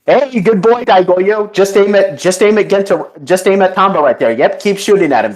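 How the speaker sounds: high, coaxing character voice; Genta. Acted. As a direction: egg on a pet, quick and high-pitched. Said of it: "And then Genta's like".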